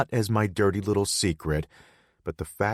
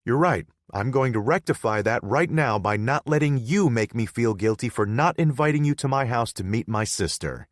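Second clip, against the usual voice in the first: put-on higher pitched playful girlfriend; young woman voice; 5 semitones higher, 6 dB louder than usual. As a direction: voice her higher, coaxing.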